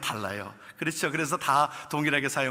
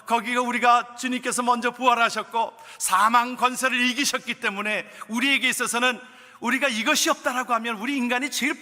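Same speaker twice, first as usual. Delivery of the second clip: raised, high, louder preaching voice; fervent preaching; 7 semitones higher, 4 dB louder than usual. Real, not acted. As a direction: preach it with full conviction. Preaching at full force. (힘찬 설교 톤)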